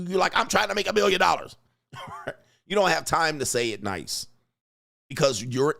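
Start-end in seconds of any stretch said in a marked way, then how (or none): 0.4-1.6 higher, fast exasperated protest; mock irritation. Working man interrupted by his wife, mock exasperation. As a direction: snap back at an interruption, acting it out. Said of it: "if she comes in and irritating you".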